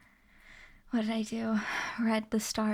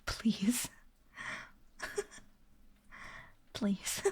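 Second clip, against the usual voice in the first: laughing; 6 dB quieter than usual. Real, not acted. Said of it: "I might be a little broken".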